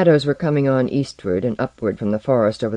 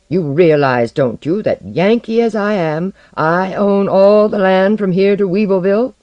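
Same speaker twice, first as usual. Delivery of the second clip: louder, higher, boastful Southern voice; Southern belle; 5 semitones higher, 6 dB louder than usual. A narrator's reading. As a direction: boast with a lilting Southern accent. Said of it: "lilting southern voice".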